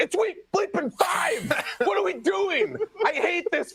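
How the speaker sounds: high, slowed, shouting in disbelief; frustrated outburst. Real, not acted. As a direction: blow up at the absurdity, half laughing. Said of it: "he's not trying to be funny".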